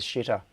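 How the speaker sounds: "Shitter" with the X said as a "sh" sound; Chinese-style X. Shown as a demonstration. Streamer renames Twitter, "Shitter" opening on a Chinese-X "sh". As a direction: begin "Shitter" with sh, as Chinese reads X. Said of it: "with the Chinese pronunciation of the X".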